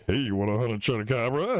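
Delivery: lightly voiced old man offering a hunt; mock old-timer asking a favour. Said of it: "the old man voice".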